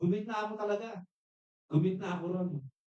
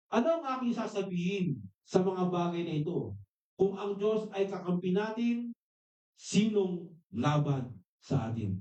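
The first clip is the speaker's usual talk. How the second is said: slow, solemn reading of the verse; preacher reading the verse to the congregation, slow and solemn; scripture reading; slower than usual. Acted. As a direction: read it out slowly, weighing each line. Reads scripture slowly.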